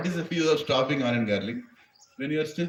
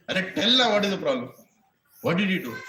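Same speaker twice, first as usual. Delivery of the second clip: impatient guru; 3 semitones higher, 4 dB louder than usual. Acted.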